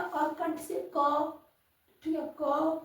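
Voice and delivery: क drawn out slowly from the throat; क को धीरे-धीरे कंठ से बोलना; slow throat sound demo. Shown as a demonstration. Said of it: "जैसे हम क बोलते हैं तो ये कंठ से बोलते हैं".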